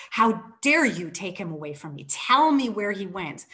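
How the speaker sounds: loud, angry demand, voice rising; retold furious outburst; furious railing. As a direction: rail at the driver in fury. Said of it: "she is railing. She is furious".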